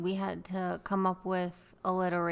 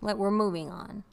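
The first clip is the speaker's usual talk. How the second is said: firm loud; 6 dB louder than usual. Acted. Firm playful close.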